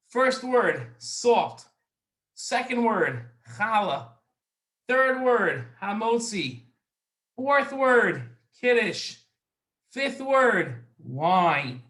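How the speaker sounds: rattled off briskly, little gap between words; brisk word list read with short pauses; quick list. Shown as a demonstration. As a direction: run through the list at speed. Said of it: "I might have said that a little too fast".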